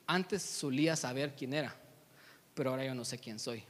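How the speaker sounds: understated gloom, slightly low and subdued; a lost, downcast admission, lightly acted; dejected. Simba answering the monkey, lost, mildly dejected. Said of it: "Está así como todo deprimido, todo triste".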